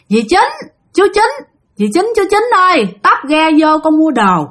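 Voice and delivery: lightly voiced ghost calling Dì Chín and chú Chín. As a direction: call the boat couple in a high ghostly voice. Ghost calls boat from shore.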